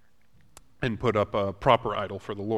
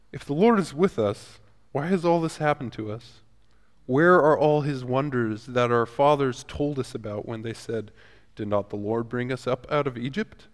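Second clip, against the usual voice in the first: Gideon's mock complaint to the Lord, raised and exasperated; frustrated complaint; 3 semitones higher, 5 dB louder than usual. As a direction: let a touch of frustration push the pitch up. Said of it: "maybe a little bit of frustration with the Lord".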